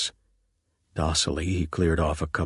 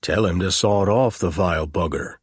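growling; 4 dB louder than usual. Acted. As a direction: growl it at the phone. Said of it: "Clapper growled".

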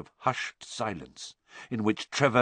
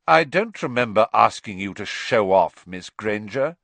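cold Snape; 5 dB louder than usual. Acted. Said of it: "said Snape coldly".

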